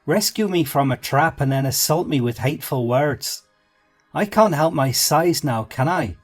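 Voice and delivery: high, loud offended rant; offended little man. A narrator's reading. Insulted small man scolding Brendan, high loud offended rant. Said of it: "The man jumped angrily to his feet".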